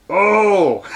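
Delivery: lightly put-on drawn-out "oh"; a hint of a campy falsetto character; put-on comic voice; mock ladyboy voice. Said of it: "this is my ladyboy voice".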